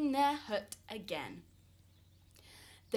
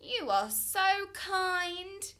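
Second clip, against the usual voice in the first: pleading couple voice; 7 semitones higher, 3 dB louder than usual. A narrator's reading. Couple praising the mountain.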